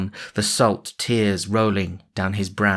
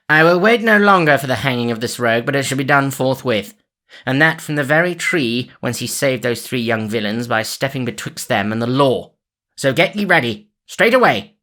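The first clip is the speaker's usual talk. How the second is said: higher and louder, rising to a shout; commanding sheriff; 4 semitones higher, 4 dB louder than usual. Acted. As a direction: bark orders at the men, faster. Sheriff orders his men.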